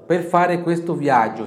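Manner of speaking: slow, loud and careful; slow model phrase. Shown as a demonstration. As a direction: model it for students to repeat.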